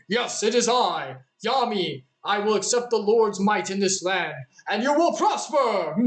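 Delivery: a hammed-up anime pharaoh's proclamation; Yami voice. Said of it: "Yami? Yeah, Yami. Is that you?".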